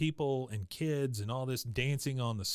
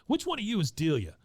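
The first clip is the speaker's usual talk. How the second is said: high, incredulous question; baffled question; 7 semitones higher, 3 dB louder, faster than usual. Retold or imitated. Son turning to the old ladies, baffled and high. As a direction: turn and ask in disbelief. Hank turns around, baffled.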